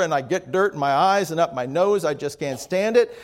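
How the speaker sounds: lightly imitated whining farmhand. Whiner complains to grandmother about plowing, lightly whining. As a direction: bellyache with a mild whine. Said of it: "Another time a whiner would say".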